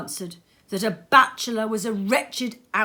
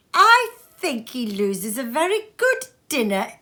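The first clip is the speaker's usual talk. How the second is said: higher, louder cut-in; interrupting niece; 7 semitones higher, 7 dB louder than usual. Acted. Niece interrupting her husband, louder and higher. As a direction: cut in sharply. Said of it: "interrupted Scrooge's niece".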